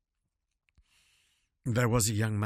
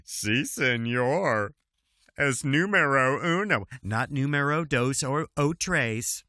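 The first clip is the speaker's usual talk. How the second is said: mock Spanish accent. Staying in gaucho voice.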